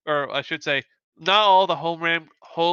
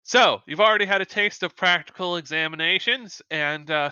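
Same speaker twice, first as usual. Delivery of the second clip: stern instructor; 3 semitones higher than usual. Acted. Instructor to the class about exams, lightly acted sternness. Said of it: "so she'll say".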